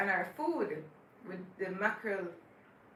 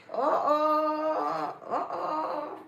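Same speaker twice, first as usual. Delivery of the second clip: startled, pitched-up uh-oh; 5 semitones higher, 5 dB louder, much slower than usual. Real, not acted. Spilling milk while setting up, a startled uh-oh. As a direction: catch the spill as it happens.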